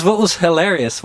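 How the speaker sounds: normal talking voice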